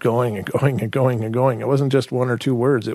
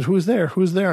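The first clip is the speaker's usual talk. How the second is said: mild imitated yell; retold yelling; 6 semitones higher than usual. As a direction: call out "who is it" as a startled kid would, held back. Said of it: "and then I'm yelling".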